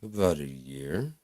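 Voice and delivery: slow, reluctant answer with rising end; sheepish admission. Retold or imitated. Teen admits smoking to doctor beside mom, sheepish. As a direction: drag out the confession.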